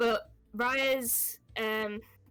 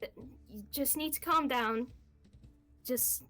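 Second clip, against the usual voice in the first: soothing comfort; 4 semitones higher than usual. Acted. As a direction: hush her gently like a frightened child. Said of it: "kinda comfort her and say".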